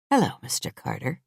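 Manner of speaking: soft, sweetly innocent greeting. A narrator's reading. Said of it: "I smile sweetly, innocently".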